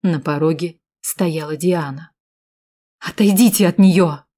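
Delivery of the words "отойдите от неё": loud commanding cry; loud firm warning; exclaiming. Acted. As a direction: order him away from her. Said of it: "воскликнула девушка".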